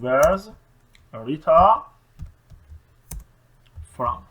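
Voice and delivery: Where's Rita from, word by word with pauses; contracted form. Shown as a demonstration. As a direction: give the short form one word at a time. (شکل مخفف کلمه به کلمه)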